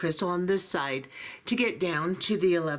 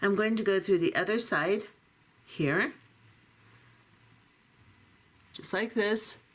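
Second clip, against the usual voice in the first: voice fading and giving out. Demonstrating a beading pattern, keep talking while your voice is going away. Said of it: "my voice is going away".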